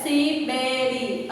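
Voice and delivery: "Siberiano" slowly counted out si, be, ri, a, no; measured beats on each syllable of "Siberiano". Shown as a demonstration. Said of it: "Quantas sílabas nós temos aí?". ("Siberiano" separado em sílabas)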